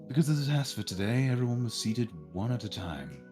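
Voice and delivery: measured storyteller's read; story narration. A narrator's reading. Narrator telling players about the test day, story narration. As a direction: narrate it clearly, phrase by phrase.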